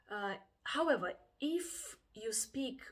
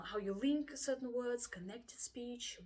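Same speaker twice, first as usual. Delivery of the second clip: usual speaking voice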